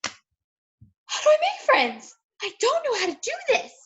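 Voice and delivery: mock clueless newbie. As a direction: play the lost beginner, stretching each word high. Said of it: "and you're like".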